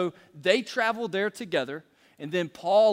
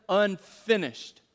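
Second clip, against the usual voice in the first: slow, drawn-out Unfinished; congregation call-back; 2 semitones higher, much slower than usual. Shown as a demonstration. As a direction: lead the room to say Unfinished. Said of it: "can we all say that together?".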